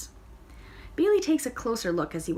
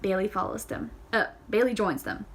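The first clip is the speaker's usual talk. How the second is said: ordinary delivery, nothing marked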